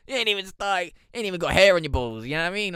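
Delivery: loud teasing through laughter; mock him while cracking up; laughing. Real, not acted.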